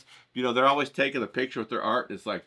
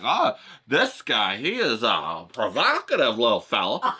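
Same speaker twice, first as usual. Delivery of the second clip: mock snooty admirer; slower than usual. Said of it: "people are like".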